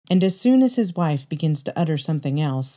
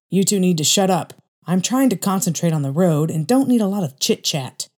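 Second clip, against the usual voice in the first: mock angry father, a touch louder; 2 semitones higher, 3 dB louder than usual. Father snaps at family.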